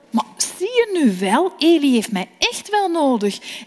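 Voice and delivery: put-on a child sure he is needed; young Samuel eager to go to Eli; eager boy Samuel.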